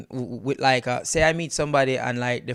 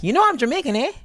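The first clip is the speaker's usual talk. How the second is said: tag; 11 semitones higher, faster than usual. Retold or imitated. Acting Canadians announcing they are Jamaican.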